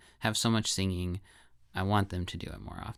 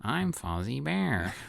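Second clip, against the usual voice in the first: Fozzie impression; 3 semitones higher, much slower than usual. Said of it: "really sounded like".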